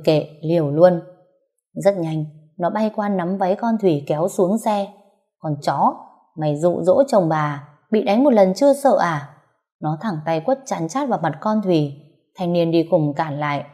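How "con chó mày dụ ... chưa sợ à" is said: spits insults, rising at the end; furious abuse. Acted. Wife cursing the rival, in a furious abuse. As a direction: tear into the rival who stole her husband. Wife attacks husband's mistress.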